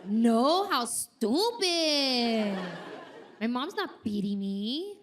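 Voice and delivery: indignant protest. Retold or imitated. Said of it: "I was like".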